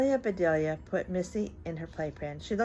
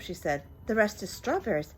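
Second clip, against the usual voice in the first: put-on reading to children. A narrator's reading. Reads picture book aloud.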